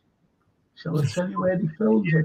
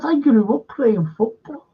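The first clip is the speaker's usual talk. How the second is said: retelling his own protest in a much higher, squeaky voice; a high, incredulous squeal of alarm; mock panicked squeak; 5 semitones higher than usual. Actor retelling the director's horse request, high squeaky protest.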